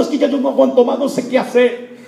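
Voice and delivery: high, loud cry of despair; preacher's impassioned imitation of despair; acted desperation. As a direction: voice a desperate person at the end of their rope. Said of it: "te has desesperado".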